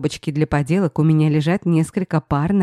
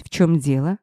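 usual speaking voice

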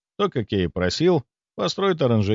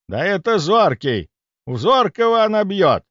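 higher, louder alarmed call; выкрик; 9 semitones higher, 4 dB louder than usual. A narrator's reading. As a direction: cry out in dismay, rising higher. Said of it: "выкрикнул он". (встревоженный выкрик)

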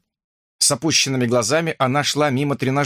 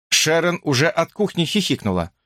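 ordinary delivery, nothing marked

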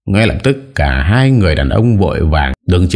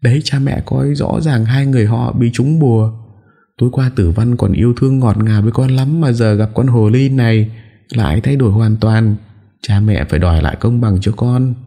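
whimpering; 7 semitones higher than usual. Acted. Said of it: "vừa mếu máo vừa nói".

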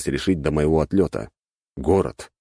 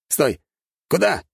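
calling out; 11 semitones higher than usual. A narrator's reading. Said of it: "выкрикнул тот".

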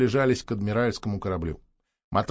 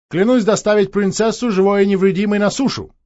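loud vow; 7 semitones higher, 7 dB louder than usual. Acted. Solemn oath.

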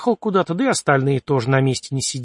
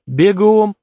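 sharp loud command, louder; barked order; 5 semitones higher, 6 dB louder than usual. Acted.

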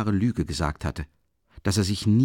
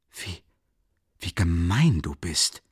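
terribly embarrassed; 2 semitones lower, slower than usual. A narrator's reading. Friend teased before the sister, embarrassed protest. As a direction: stammer the start, then drag out the reproach. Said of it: "sagte Rasumichin furchtbar verlegen".

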